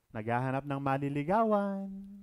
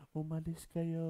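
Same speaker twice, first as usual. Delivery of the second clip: very gentle; 3 dB quieter than usual. Pretend. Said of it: "very gentle na".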